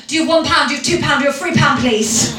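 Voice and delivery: mock beggar's pestering plea; imitated London beggar. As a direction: plead for coins as a street beggar. London beggar voiced in a story.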